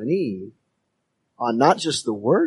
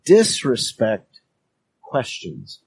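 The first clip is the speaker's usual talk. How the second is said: slow, weighty delivery of the point; emphatic sermon point; slower than usual. Shown as a demonstration. Preacher stating his first point to the church, slow and weighty. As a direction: let the point land slowly. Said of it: "here's my first point".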